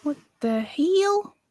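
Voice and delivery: a hint of a posh butler, drawn-out hell; slow mock-posh exclamation; Jeeves impression. Host mimics Jeeves while losing a link, lightly posh. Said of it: "As Jeeves would say".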